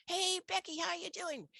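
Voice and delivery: bright high sing-song hello; imitating a chirpy conference greeting; cheery greeting. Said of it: "people would say".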